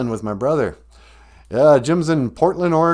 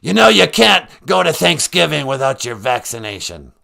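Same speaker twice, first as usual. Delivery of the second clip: louder, official-sounding caller; a mock health official checking in; Doctor Fauci; 6 dB louder than usual. As Doctor Fauci, he asks the host about vaccination, louder. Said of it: "Doctor Fauci".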